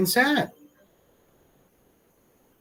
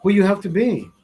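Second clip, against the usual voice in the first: self pep talk; 2 semitones higher, 6 dB louder than usual. Real, not acted.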